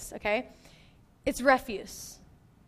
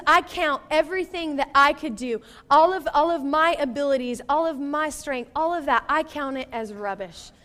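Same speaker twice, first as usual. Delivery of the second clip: Paul, emphatic; 5 dB louder than usual. Retold or imitated. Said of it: "He says".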